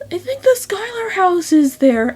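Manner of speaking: hushed whisper of a throwaway joke; whispered aside. Real, not acted. Narrator to viewers, whispering a quick aside.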